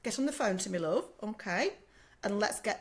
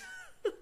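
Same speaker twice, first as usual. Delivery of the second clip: emotional laugh; 5 dB quieter than usual. Real, not acted. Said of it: "even Karen's getting slightly emotional today".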